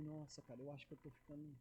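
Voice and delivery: very quiet, low, deflated muttering; retold downcast self-doubt, barely audible; dejected. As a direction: act crushed, voice sinking away.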